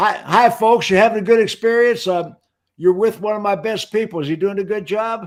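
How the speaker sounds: loud, hearty calling out. A manager showing how to greet customers from twenty feet away, in a loud voice. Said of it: "I in a loud voice".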